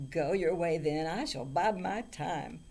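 loud, commanding troll voice. A narrator's reading. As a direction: dismiss them like a menacing troll. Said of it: "his eyes blazed bright as he said".

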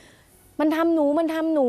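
high, slow, panicked cry for help; frightened plea. Retold or imitated. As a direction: plead in terror, voice straining high. Fleeing attacker, begging for help. (ร้องขอความช่วยเหลืออย่างหวาดกลัว เสียงสูงและช้า)

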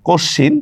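কশ্চিন as "kosh-shin", no m; silent m. Shown as a demonstration. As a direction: double the sh in কশ্চিন, leaving out the m. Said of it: "মফলার উচ্চারণ হচ্ছে না".

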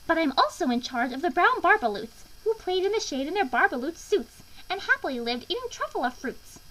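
high, loud, scolding creature voice; snapping Lorax. A narrator's reading. Lorax confronting the Onceler over felled trees, snapping. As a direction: scold indignantly, pitched well up. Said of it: "He snapped".

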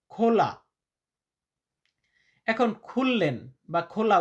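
ordinary talk, nothing marked

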